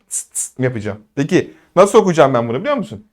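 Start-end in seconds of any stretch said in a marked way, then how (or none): 0.1-0.6 student hissing. Acted.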